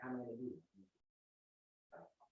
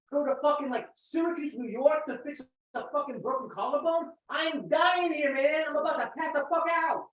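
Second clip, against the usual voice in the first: complaining Karen; 3 semitones higher than usual. Acted. Rehearsing a Karen hospital complaint bit.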